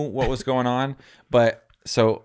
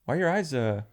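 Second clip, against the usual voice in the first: nosy brother. Retold or imitated. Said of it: "But he tries to, like".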